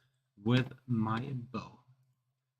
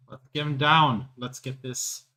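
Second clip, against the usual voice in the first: loud, rousing rally cry; rallying shout; 2 semitones higher, 5 dB louder than usual. Acted. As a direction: call the comrades to charge. Rallying comrades against the giant.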